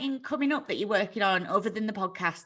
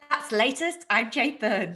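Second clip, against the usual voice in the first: bright news sign-off; 2 semitones higher than usual. Shown as a demonstration. Jade copying the host's sign-off in news voice. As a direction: sign off like an anchor. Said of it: "I'm gonna do that at the end of mine".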